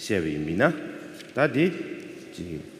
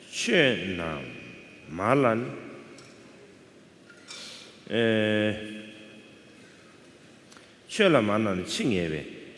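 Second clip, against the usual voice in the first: scripture recitation. Acted. Teacher reading the soliloquy to students, recitation. Reads the text aloud.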